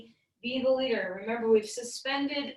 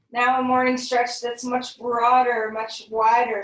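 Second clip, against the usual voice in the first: louder, pushing the stretch wider; big energizing cue; 10 dB louder than usual. Acted. Teacher urging the class into a broad stretch, loudly. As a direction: call it out to get them stretching.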